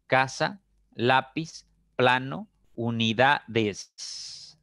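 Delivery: "casa", "lápiz", "plano", "unidades", one by one, leaning on CA, LÁ, PLA, DA; stress on second-last syllable. Shown as a demonstration. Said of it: "llevan la mayor fuerza de voz en la segunda sílaba".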